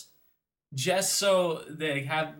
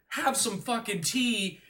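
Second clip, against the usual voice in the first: put-on higher, slow, full-fledged English accent; exaggerated English tea-time accent; mock English accent; 6 semitones higher, slower than usual. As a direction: ham up an English accent, drawn out. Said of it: "where he had it full-fledged".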